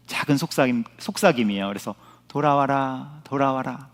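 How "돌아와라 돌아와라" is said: gentle, hushed, voiced near-whisper; soft whisper-like call. Preacher voices God calling through conscience, softly whispering. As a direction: softly murmur it like a small inner whisper. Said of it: "이런 속삭임이라면".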